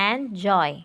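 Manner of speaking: এনজয় in two parts, এন then জয়; split into syllables. Shown as a demonstration. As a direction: break এনজয় after এন, letting জয় fall. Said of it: "দেখছো ভাগ করে দিছি সেভাবে দিছে".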